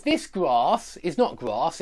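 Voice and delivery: first grass with a flat a as in cat; contrasting vowels. Shown as a demonstration. Teacher contrasting two ways of saying grass. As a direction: set the American grass against the British one. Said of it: "I've put grass twice".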